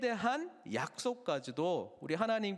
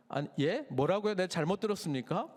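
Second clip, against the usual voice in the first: shocked disbelief. Acted.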